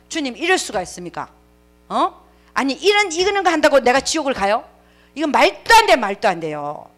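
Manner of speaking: fuming, can't believe it; huffing protest. Retold or imitated. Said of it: "씩씩거렸어요". (주님께 씩씩거리며 항의하는 목소리)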